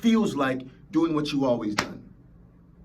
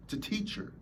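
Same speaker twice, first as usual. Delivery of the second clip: dropped, much softer; quiet; 5 semitones higher, 11 dB quieter than usual. Shown as a demonstration. Speaker hushing the point about pain. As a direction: let it fall to near silence. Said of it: "repeats line softer then whispered".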